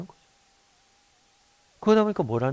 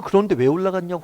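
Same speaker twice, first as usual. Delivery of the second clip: raised, higher-pitched mock telling-off; imitated angry scolding; 4 semitones higher, 6 dB louder than usual. Parent asking why the child climbed up, imitated anger. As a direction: act out a mildly angry parent. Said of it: "화를 내겠죠".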